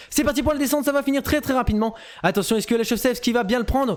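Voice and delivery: montée d'excitation de commentateur sportif; commentaire haletant. Real, not acted. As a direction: lancer le moment décisif d'une course. Commentaire de la descente finale. (commentaire sportif enflammé)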